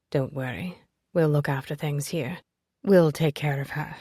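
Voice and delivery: calm and sure, low. Acted. Logan reassures Livy before she leaves, steady low voice.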